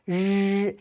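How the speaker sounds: 日 as a long buzzing r; R sound. Shown as a demonstration. Teacher isolating the R sound, drawn-out buzzing 日. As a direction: hold the initial r of 人 on its own. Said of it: "R sound".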